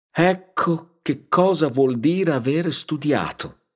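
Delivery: high, slow, marvelling village mother; admiring Agnese. Acted. Mother admiring the count's words, high and slow. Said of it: "disse Agnese".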